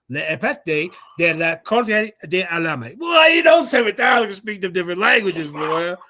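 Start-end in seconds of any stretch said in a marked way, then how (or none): 3.0-6.0 loud, crowing brag; loud boast. Real, not acted. Bragging boast after Spanish.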